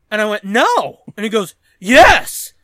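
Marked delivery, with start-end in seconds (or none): 0.5-1.0 loud, firm refusal; retold loud refusal. Storyteller refusing the junker his cans, loud retold refusal. 1.8-2.5 loud, higher, forceful comeback; mock insistent shout. Junker contradicting the storyteller, mock insistent shout.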